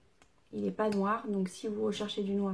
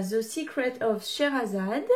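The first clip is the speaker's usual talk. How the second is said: French-accented English title. Real, not acted. Beauty vlogger naming the box in English, French-accented English. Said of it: "Magnifique accent".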